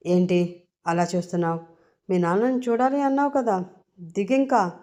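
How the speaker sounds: a hint of stern, curt tone; mildly serious. Srinu tells Ammu to get out at the hospital, mildly serious. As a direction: say it gruffly, hiding kindness. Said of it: "అని సీరియస్గా అంటాడు శ్రీను".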